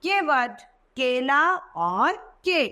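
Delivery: केला drawn out slowly; slow example words. Shown as a demonstration. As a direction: say केवट, केला slowly and clearly. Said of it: "के की मात्रा का उदाहरण". (केवट, केला धीरे और साफ़ बोलकर)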